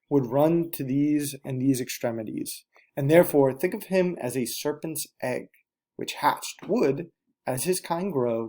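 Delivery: slow, theatrical Shakespearean reading; a teacher hamming up Shakespearean verse; Shakespearean accent. Shown as a demonstration. Teacher reads the soliloquy to her class in a Shakespearean accent. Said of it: "I'm gonna put on my best Shakespearean accent".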